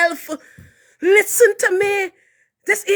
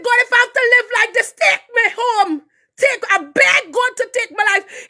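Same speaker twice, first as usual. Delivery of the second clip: tearful pleading; 5 semitones higher than usual. Real, not acted. Begging God, crying heard.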